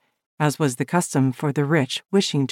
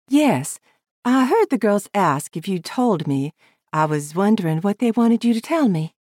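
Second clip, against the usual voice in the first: higher, coaxing woman's voice; young woman voice; 5 semitones higher than usual. Acted. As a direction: press him gently as her. Woman presses him.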